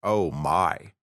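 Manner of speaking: slow, drawn-out Bond voice; unhurried, put-on secret agent voice; James Bond impression. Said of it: "get my James voice on".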